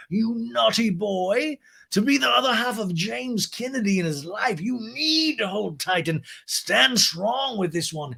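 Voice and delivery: high, slow, posh scolding lady; Lisa impression. Lisa scolds James's girlfriend, high slow posh voice. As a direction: purr it out high and slow like a grande dame.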